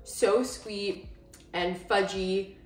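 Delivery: slow, savoring; drawn out, relishing every word; yum. Real, not acted. Savoring brownie after bite.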